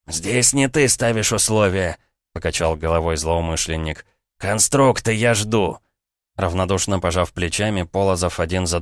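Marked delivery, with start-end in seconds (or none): 0.1-5.8 gunman calmly dictating terms to the hero; cold dictating. Acted.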